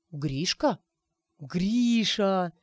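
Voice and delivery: slight astonished drawing out; lightly voiced disbelief; amazed drawl. Anton recognising Grishka, mildly amazed. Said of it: "изумлённо протянул Антон".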